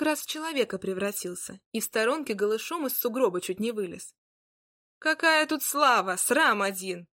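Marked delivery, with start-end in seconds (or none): 5.0-7.1 indignant. Acted. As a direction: scold him for the shame. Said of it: "возмутилась Марья".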